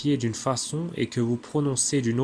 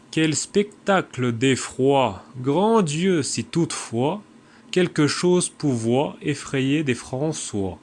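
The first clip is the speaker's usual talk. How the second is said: vers récités; slower than usual. Shown as a demonstration. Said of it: "une pièce de vers de Pierre Corneille".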